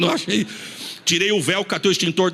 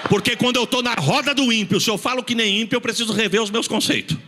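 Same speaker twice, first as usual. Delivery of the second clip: preaching at full force; 6 semitones higher than usual. Acted. Pastor presses the congregation to speak like believers, preaching hard. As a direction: drive the point home to the church, urgent.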